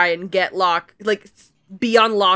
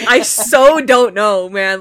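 slow, louder, laughing through it; laughing clueless Frank; 6 dB louder, slower than usual. Retold or imitated. A friend laughing as she plays Frank, helpless and clueless. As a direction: shrug it off while cracking up.

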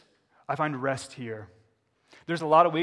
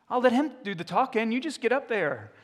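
mock God voice; 9 semitones higher, 5 dB louder than usual. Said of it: "God voiced reassuring Moses".

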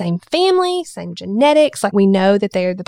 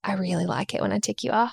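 sassy daughter; 8 dB quieter, faster than usual. Retold or imitated. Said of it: "she looked at me across the table".

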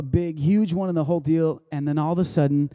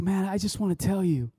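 emotional retelling; 4 semitones higher than usual. Retold or imitated. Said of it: "He's like / he starts to cry".

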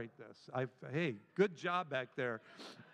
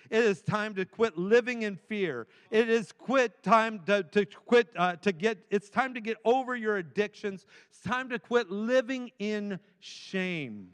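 rising exhortation; 3 semitones higher, 3 dB louder than usual. Real, not acted. Pastor urging the church to quit living in fear, building louder. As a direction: drive it home like a call to rise.

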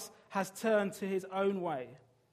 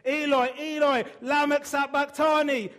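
high, loud anguished cry from the cross; 8 semitones higher, 11 dB louder than usual. A narrator's reading. Jesus on the cross crying out to God, loud anguished cry. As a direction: cry it out at full voice, forsaken. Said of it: "Jesus cried out in a loud voice".

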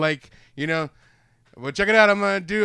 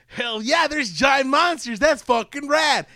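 loud, high, drawn-out whooping; excited hype; 8 semitones higher, 6 dB louder than usual. Acted. Fan imagining seeing giant monsters, excited hype. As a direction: crow it slowly with mock-epic glee.

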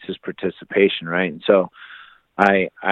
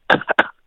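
imitated coughs with the air knocked out; mock breathless hacking; winded coughing. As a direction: cough like you just got slammed. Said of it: "coughing because it took the air out of me".

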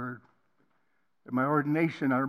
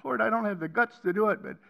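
builds from a plea to a loud, high, anguished cry; retold anguished prayer climbing to a loud high cry; desperate cry to God; 7 semitones higher, 9 dB louder than usual. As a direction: beg God to make it stop, rising to a shout. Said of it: "I cried out".

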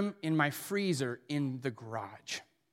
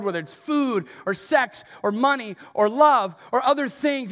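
preaching; 4 semitones higher than usual. Real, not acted. Sermon build.

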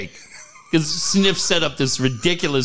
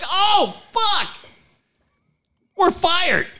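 high laughing dread; hammed-up sinking realization; mock dread; slower than usual. Realizing they'll be fired, high mock dread. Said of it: "I'm like".

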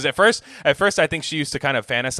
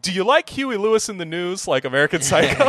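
lightly acted movie line, pitched up; American Psycho quote; 8 semitones higher than usual. Podcaster quotes his comment mocking Rubin, playful movie imitation. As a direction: toy with the question, higher than usual. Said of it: "I commented, like".

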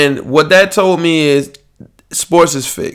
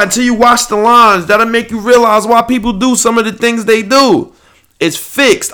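high, indignant rant; worked up and fed up, voice riding high; real pissed-off rant; 6 semitones higher than usual. Real, not acted. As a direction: vent in raised pitch, outraged. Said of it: "I'm pissed".

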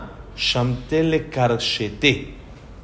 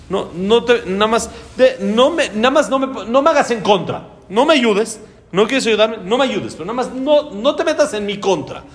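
boastful soldier telling God to stay out, higher; arrogant general; 6 semitones higher than usual. Retold or imitated. Proud general brushing off God, higher and boastful.

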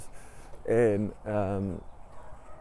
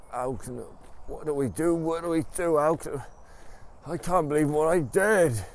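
rising, louder, higher panic; mock-frantic, spiralling up into panic; panicked husband; 6 semitones higher, 4 dB louder than usual. Husband frets to wife, mock panic.

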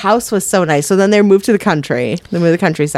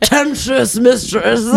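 laughing through a lightly voiced pompous radio host; Kelsey Grammer impression; 3 semitones higher than usual. Repeating the line to a friend as a laughing pompous radio host. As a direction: draw out Tempestuous slowly, mock grand. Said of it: "Kelsey Grammer impression".

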